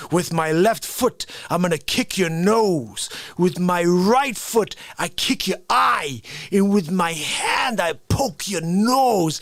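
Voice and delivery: slow, deliberate fake-tough threat; mock karate threat. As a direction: spell out each move slowly like a bluffing fighter.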